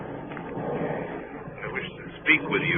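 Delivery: sinister whisper. Acted. Sinister passenger in wheelhouse.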